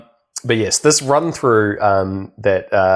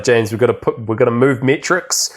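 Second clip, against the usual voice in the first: hammed-up demanding cohost, higher; lightly voiced bully pushing for metrics; playful mock of a harsh colleague, quick and higher; mock pushy boss; 6 semitones higher than usual. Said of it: "really mean to me".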